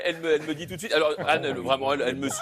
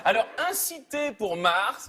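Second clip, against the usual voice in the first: petite voix; 6 semitones higher, slower than usual. Pretend. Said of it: "ça fait une petite voix comme ça".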